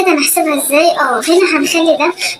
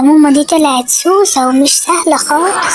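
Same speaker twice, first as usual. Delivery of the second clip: slow, lower, laughing half-shout; laughing aside; 4 semitones lower, slower than usual. Acted. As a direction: daughter laughing at her sneaky mom. Laughing aside about mom.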